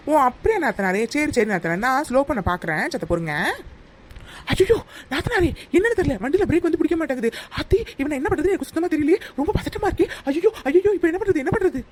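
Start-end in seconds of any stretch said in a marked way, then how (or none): 4.5-11.8 mock panic. Fake brake failure panic.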